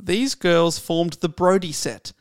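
measured, slow literary reading; slow book reading; story reading. Acted. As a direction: read the opening line for an audience. Reads from novel.

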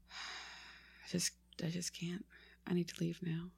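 faint, fading, almost breathless give-up; mock exasperated mutter. Host groaning she can't go on, hushed. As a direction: sag away from the mic in mock despair. Mock despair, sinking away.

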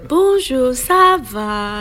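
high, sing-song French greeting; French phrases. Shown as a demonstration. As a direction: show off your little bit of French, high and drawn out. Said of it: "the only French I'm gonna get".

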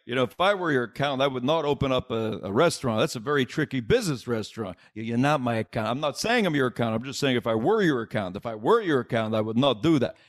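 a lightly voiced dry, deadpan Charles Grodin; hint of Grodin, measured and insistent; Charles Grodin impression. Comic imitating Grodin advising De Niro on a train, lightly voiced. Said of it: "that's exactly how he sounded".

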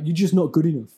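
light mock Irish accent; a hint of an Irish gamer. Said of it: "Why did you do it in an Irish accent?".

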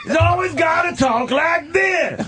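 Samuel Jackson impression. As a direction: ham up his cadence, laughing. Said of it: "the cadence of his speech".

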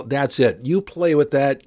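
ordinary delivery

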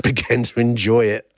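reading that breaks into a laugh; amused, laugh bursting through the words; real laughter. Real, not acted. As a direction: crack up while finishing the quote. Cracks up reading the quote.

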